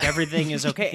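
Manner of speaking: flat monotone "everything is okay". Retold or imitated. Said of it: "talking at a monotone voice".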